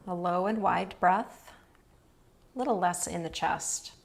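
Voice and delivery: calm, even yoga-nidra guidance with long pauses; unhurried phrases, leaving space to breathe; guided relaxation. Real, not acted. Yoga teacher guiding students through restful breathing, calm guided relaxation. Leads restorative breathing practice.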